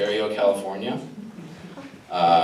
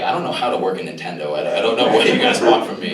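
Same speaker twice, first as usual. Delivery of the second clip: confused mom; 6 dB louder, faster than usual. Retold or imitated. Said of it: "She's like".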